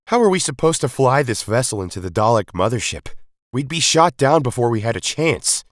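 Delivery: worried leader protesting; rebel leader, alarmed. A narrator's reading. The rebel leader doubts the attack plan, alarmed.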